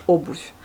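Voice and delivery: обувь, the V softened at the end; Russian word obouv. Shown as a demonstration. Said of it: "ça veut dire chaussure".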